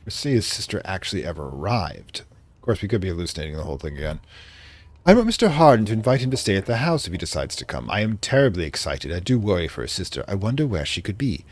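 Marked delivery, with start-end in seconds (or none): 5.0-11.5 put-on light British accent for a diary entry; reading a diary in a mild British accent; vaguely British accent. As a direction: read it like a 1920s English diarist. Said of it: "I'm doing a vaguely British accent".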